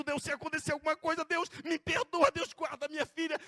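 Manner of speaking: loud, desperate plea to God; pleading prayer. Retold or imitated. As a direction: beg God to guard your child. Retold tearful prayer, louder. (súplica desesperada e alta)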